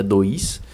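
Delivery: "Dois" said as one unbroken syllable; single-beat "Dois". Shown as a demonstration. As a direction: keep "Dois" whole, gliding from O to I. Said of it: "Você não separa dois".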